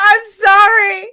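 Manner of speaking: loud, high, drawn-out wail of apology; real laughing, tearful plea. Real, not acted. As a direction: wail it helplessly through giggles. Laughing apology after mimicking a friend.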